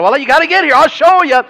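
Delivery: high, loud coy mom voice; teasing mom. Retold or imitated. Mom keeping the surprise from her son, high and coy. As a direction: tease him like a giddy mom.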